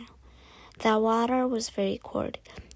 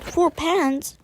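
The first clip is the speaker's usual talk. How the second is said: indignant disbelief; 6 semitones higher, 6 dB louder than usual. A narrator's reading. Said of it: "cried Toad".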